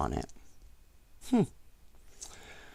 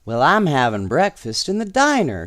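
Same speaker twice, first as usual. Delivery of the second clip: put-on a brisk, louder child's shout; hammed-up shout while playing; playful shout; 3 dB louder than usual. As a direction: call it out quickly like a giggling boy. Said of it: "shouted David".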